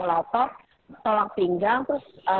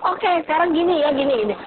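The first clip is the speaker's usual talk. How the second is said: fiery teaching voice; 7 semitones higher than usual. Retold or imitated. Mother coaching her son in math, fiery and eager. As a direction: cheer the child on through a math problem. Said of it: "saya kan orangnya ngomongnya berapi-api".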